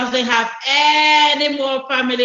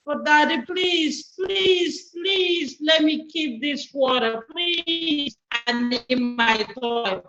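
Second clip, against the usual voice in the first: put-on begging little boy; 2 semitones higher than usual. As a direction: plead please over and over like a child.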